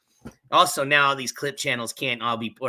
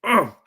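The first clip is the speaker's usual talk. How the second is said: swallowing groan; 6 semitones higher, 6 dB louder than usual. Real, not acted. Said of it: "big old fucking bite of some bread".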